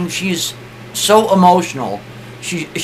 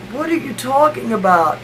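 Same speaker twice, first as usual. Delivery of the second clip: high-pitched emotional protest; upset, emotional wife; 7 semitones higher than usual. Retold or imitated. Sick wife answers husband's cure, high upset voice. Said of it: "She's getting kinda angry, but she's emotional".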